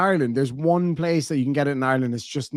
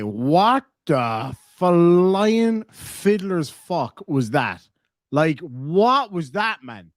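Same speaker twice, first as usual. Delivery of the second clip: slow, drawn-out stunned what; stunned disbelief; 3 semitones higher, much slower than usual. Real, not acted. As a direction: spell out your shock. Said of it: "stunned reaction".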